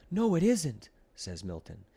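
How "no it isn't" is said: insistent no. A narrator's reading. Milton insists, frightened.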